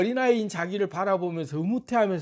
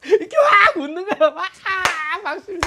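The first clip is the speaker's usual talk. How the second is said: high and loud, words broken by laughter; whooping laugh through the words; laughing shout; 9 semitones higher, 4 dB louder than usual. Shown as a demonstration. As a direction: yell it mid-laugh like you've lost it. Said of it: "이렇게 제가 웃듯이".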